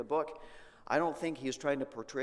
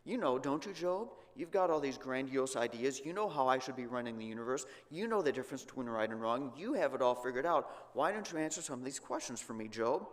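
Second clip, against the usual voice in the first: sarcastic God. Acted. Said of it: "a little bit of sarcasm coming through here".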